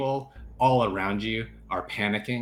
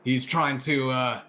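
a hint of a rough officer, louder and higher; gruff officer; 5 semitones higher, 4 dB louder than usual. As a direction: accuse him in front of the guards. Officer accuses the prisoner.

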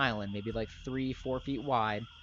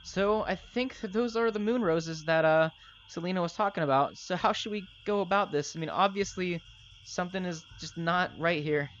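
higher NPC voice; Darius voice; 6 semitones higher than usual. Acted. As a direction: Darius uneasy before the moon roses. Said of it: "Darius looks at you guys and goes".

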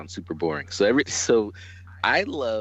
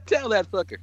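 high, laughing egging-on; a giddy, laughing shout of support; laughing cheer; 12 semitones higher than usual. Real, not acted. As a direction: cheer him on through laughter.

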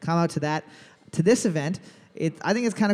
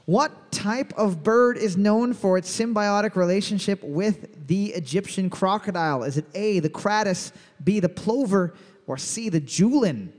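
quiz host read; 2 semitones higher than usual. Acted. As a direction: announce it like a pub trivia host. Reads trivia question as host.

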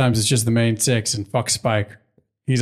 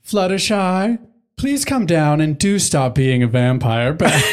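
casual Rarity; 3 semitones higher, slower than usual. Retold or imitated. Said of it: "all casually like".

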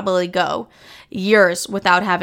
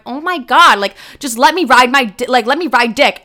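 louder, raised, exasperated begging; mock pleading whine; 3 semitones higher, 5 dB louder than usual. Pleading with her own intuition to let her, mock exasperated. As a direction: beg like a frustrated kid.

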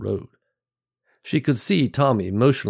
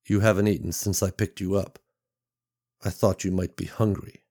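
level and low. Acted. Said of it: "His voice was level and low".

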